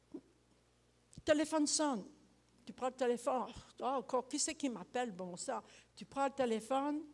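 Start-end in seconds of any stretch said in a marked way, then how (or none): 3.8-5.6 irritated grumble. Retold or imitated. Annoyed at phone ringing.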